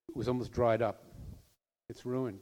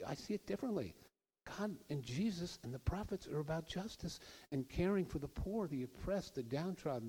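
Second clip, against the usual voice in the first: higher, softer, kindly appeal to brothers; gently pleading, higher and softer; nice, gentle way; 4 semitones higher, 5 dB quieter than usual. Retold or imitated. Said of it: "He says it in a nice way".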